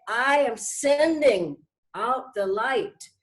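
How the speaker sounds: slow, steady, sincere declaration; slow affirmation. Shown as a demonstration. Teacher showing students how to send out light, slow and sincere. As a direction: send it out slowly and surely. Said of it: "Just say".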